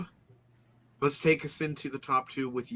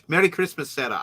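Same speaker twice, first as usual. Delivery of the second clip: light Irish accent, a touch higher; 3 semitones higher than usual. Real, not acted. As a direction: slip into a hint of Irish accent. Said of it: "I said that in, like, an Irish accent".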